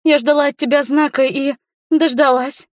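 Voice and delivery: put-on high, eager girlish voice; girl gushing to the man she adores; smitten girl. A narrator's reading. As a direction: gush it high and hopeful. Girl offering herself.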